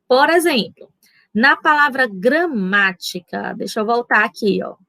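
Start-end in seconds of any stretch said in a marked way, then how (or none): 2.1-3.5 "gramática" with the "má" leaned on; stress on MÁ. Shown as a demonstration. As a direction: lengthen "má" in "gramática". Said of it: "sabemos que o má é a sílaba tônica".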